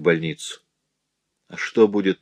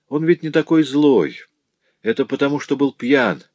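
high-pitched, plaintive excuse; defending him despite everything; pleading excuse; 7 semitones higher than usual. Acted. Mother excusing her drunken husband, plaintive.

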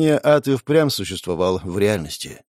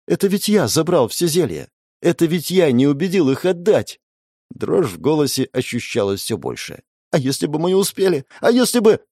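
distraught; 5 semitones higher than usual. Acted. Boy blaming himself, voice trembling.

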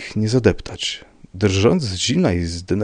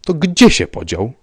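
raised, louder, pressing question; stubborn insistence; 7 semitones higher, 6 dB louder than usual. A narrator's reading. Rybka pressing about the vanished man, stubborn insistence. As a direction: demand the answer doggedly. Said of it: "nalegał uparcie pan Rybka".

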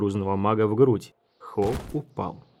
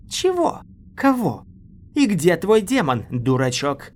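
mocking taunt; 7 semitones higher, 4 dB louder than usual. Mara mocks Wu.

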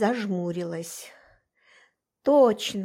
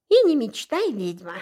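cheerful teasing; 2 semitones higher, 4 dB louder than usual. Acted. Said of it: "весело проговорил он".

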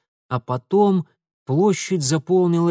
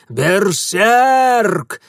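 ещё громче и выше, грубо; выкрикнуть тревогу во всё горло; крик воинов; 6 semitones higher, 7 dB louder than usual. A narrator's reading. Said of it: "заорали воины". (громкий крик воинов)

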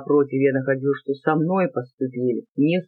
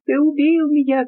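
screaming in pain; 10 semitones higher than usual. A narrator's reading. A beaten boy screams at his father, high anguished shriek. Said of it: "кричал я, не помня сам себя".

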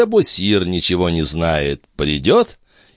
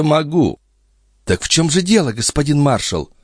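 put-on high young maid's voice; Nicole voice; 10 semitones higher than usual. Maid pleading with the old duke, high girlish voice. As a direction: play the pert young maid.

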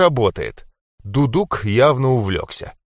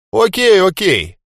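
eager okay; 9 semitones higher, 5 dB louder than usual. A narrator's reading. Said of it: "часто закивал Джонни".

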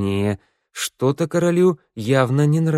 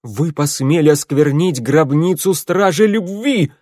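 raised, loud accusing king; booming warrior king; 5 semitones higher, 4 dB louder than usual. A narrator's reading. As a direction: rage at the intruders. (гневный король)

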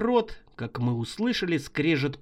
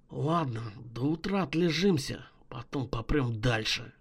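lower, softer, tired; low calm voice; 4 semitones lower, 6 dB quieter than usual. Acted. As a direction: settle it quietly. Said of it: "произнёс Гульден".

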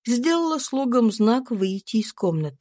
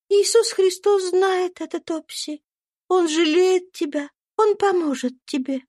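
put-on kind little girl comforting a friend; gentle young girl; 10 semitones higher than usual. A narrator's reading. Little Eva gives Topsy a lock of hair, high and kind.

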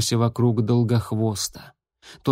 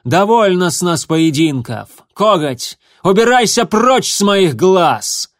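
loud, higher angry order; angry command; 6 semitones higher, 7 dB louder than usual. A narrator's reading. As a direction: drive him out with your voice. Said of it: "рявкнула синяя звезда".

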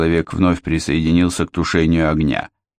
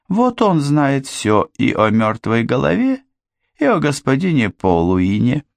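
put-on young woman voice; 3 semitones higher than usual. Anne voiced by narrator.

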